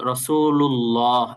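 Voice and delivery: রাসূলুল্লাহ slow, with a full, heavy ল; correct pronunciation. Shown as a demonstration. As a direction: model the ল in রাসূলুল্লাহ. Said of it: "ল পড়তে হবে". (রাসূলুল্লাহ ভারী ল দিয়ে ধীরে)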